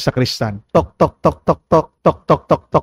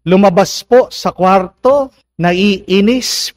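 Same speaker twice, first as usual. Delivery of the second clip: ordinary talk, nothing marked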